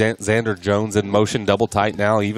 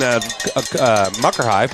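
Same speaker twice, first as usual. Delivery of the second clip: tongue-tied filler stammer; tripping over the name; stumbling over words. Real, not acted. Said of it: "can't get my words out".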